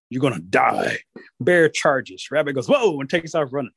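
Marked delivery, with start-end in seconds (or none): 0.1-1.0 lower, menacing bear; storybook bear threat; threatening bear. Acted. Bear threatens hidden giggler. 2.7-3.0 high startled yelp; acted cry of alarm; alarmed rabbit. Rabbit alarmed by charging Bear.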